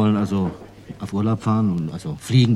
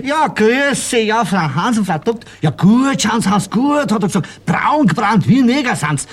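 much higher, louder chirpy greeting; caretaker's greeting; 13 semitones higher, 4 dB louder than usual. Retold or imitated. Caretaker Frau Huber greeting the returning family, high and gushing. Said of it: "Ja, Frau Huber".

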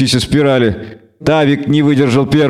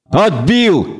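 raised, breathless astonishment; astonished gasp; 5 semitones higher than usual. Acted. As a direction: gasp it out in disbelief. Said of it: "охнул Десятка".

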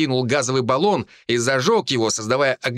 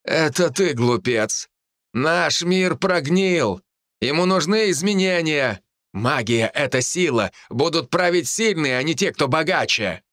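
higher-pitched, emphatic villain voice; zealous villain, indignant; 4 semitones higher than usual. Acted. Hawk preaches power to the druid, raised indignant voice. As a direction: proclaim it with fervour. Villain proclaims his creed.

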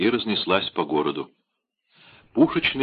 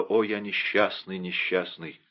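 despairing lament; 6 dB quieter than usual. Acted. Лорд Винтер в отчаянии.

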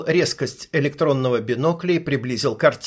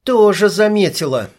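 higher and louder, tense; tense sniper; 6 semitones higher, 5 dB louder than usual. Acted. Sniper tensely confirming she saw it too. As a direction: answer tight, on edge. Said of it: "напряжённо ответила снайпер".

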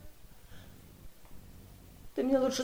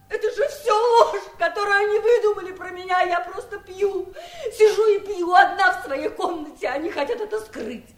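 a touch of bitter, tipsy laughter; mild rueful giggling. Acted. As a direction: laugh at herself while she tells it. Bitter drunk aunt mocks the family.

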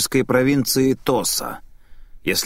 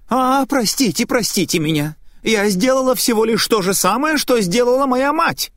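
put-on old woman breaking down; 9 semitones higher than usual. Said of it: "пожилая женщина не выдержала".

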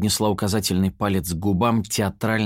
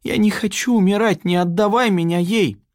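frightened pleading; 12 semitones higher, 4 dB louder than usual. Acted. Captive begging captor for life.

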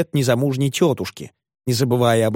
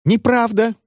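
much higher, a shrill indignant scream; shrieking denial; 10 semitones higher than usual. A narrator's reading. Spinster aunt screams back at her brother, indignant shriek. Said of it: "завопила в ответ незамужняя тётушка".

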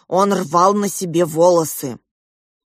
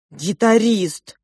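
put-on drawn out, louder child's exclamation; excited announcement; 3 semitones higher, 5 dB louder, much slower than usual. Child telling mother who came to her room, excited. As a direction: announce the visitor emphatically, stretching the word.

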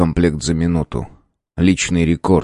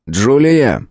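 calling her name, raised; 6 semitones higher, 3 dB louder than usual. Acted. Professor calls the distracted girl, raised voice. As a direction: call across the room to Julia. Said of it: "позвал учёный".

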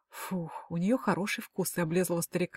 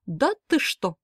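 mocking mimicry; 4 semitones higher, 3 dB louder, slower than usual. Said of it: "передразнил он меня".

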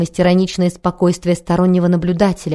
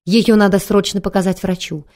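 near tears; 3 semitones higher than usual. Acted. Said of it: "простонала она, чуть не плача".

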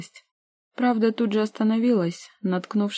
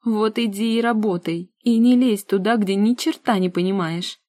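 angry retort; 3 semitones higher, 5 dB louder than usual. Acted. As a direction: lash out at her.

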